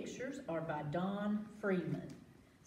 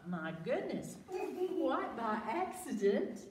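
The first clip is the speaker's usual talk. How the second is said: put-on reading to children; 2 semitones higher than usual. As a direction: draw the kids into the story. Dramatic read-aloud.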